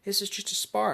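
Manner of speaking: father begging to stop the sparring, high squeak; panicked high voice. Retold or imitated. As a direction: squeal like a dad getting beaten in a spar. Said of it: "and he's like".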